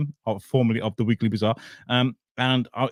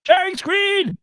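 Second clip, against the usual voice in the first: much higher, louder sing-song call; sing-song announcement; 5 dB louder, much slower than usual. Shown as a demonstration. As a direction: announce it like a fanfare. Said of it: "So sharing screen".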